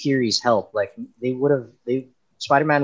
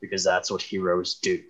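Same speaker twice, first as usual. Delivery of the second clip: Thor; 6 semitones lower, 8 dB quieter than usual. Acted. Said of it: "so they made him comical".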